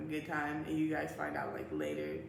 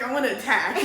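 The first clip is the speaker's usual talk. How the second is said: laughing mock rage; 5 semitones higher, 10 dB louder than usual. Explaining anger while crying.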